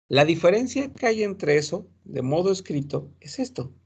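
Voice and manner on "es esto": normal talking voice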